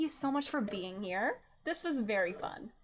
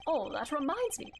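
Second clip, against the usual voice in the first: ordinary delivery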